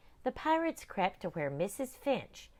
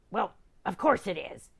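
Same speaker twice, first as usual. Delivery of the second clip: pirate shout; 2 semitones higher, 6 dB louder than usual. Acted. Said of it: "shouted Captain Bumbo".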